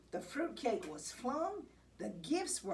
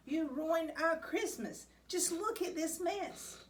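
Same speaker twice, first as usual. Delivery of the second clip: hammed-up storybook scolding; 8 semitones higher than usual. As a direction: tell the cat off in dismay. Scolding Kitty over the mess.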